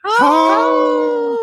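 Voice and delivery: a howling wolf call, very high and loud; deep wolf voice. Acted. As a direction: howl it out like a wolf. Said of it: "Did you hear I went ho like a deep wolf voice?".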